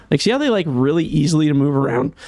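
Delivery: slightly hoarse, strained voice; losing voice. Real, not acted. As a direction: talk through a voice that is going. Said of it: "I'm losing my voice here".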